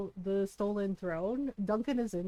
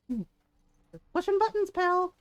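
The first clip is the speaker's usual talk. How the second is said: exasperated raised; 9 semitones higher, 6 dB louder than usual. Real, not acted. Scolding the dog.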